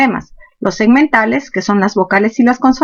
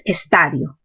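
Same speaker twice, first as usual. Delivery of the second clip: estadio said as es-TA-dio; stress on TA; 6 semitones lower, 5 dB quieter, slower than usual. Shown as a demonstration. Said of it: "Mayor fuerza en ta".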